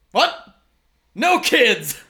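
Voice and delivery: put-on high, abrupt old-man objection; grumpy shopkeeper. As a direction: shoo children off in character. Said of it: "you hear this voice being like".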